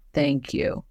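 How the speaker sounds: quiet, kindly imitation of the older actor; a hint of a gracious older gentleman; soft gentle thank you. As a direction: give it gently and briefly. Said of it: "he goes".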